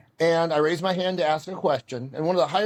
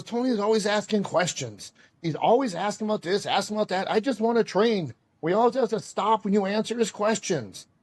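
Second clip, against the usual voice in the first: raised-pitch imitation of a whining student in the sensei's broken English; Mark voiced by Sensei; 5 semitones higher than usual. Sensei voices Mark's complaint about Tony, higher imitation in broken English. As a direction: sensei mimics a complaining pupil. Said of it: "if I impersonate Sensei".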